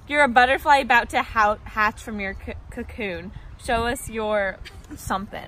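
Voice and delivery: loud. Real, not acted. Directing cocoon performance.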